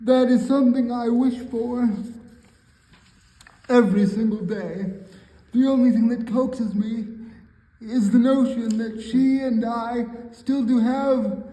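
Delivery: measured spoken poetry reading; poem recitation. Acted. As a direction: recite it line by line, pausing between phrases.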